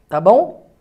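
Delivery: usual speaking voice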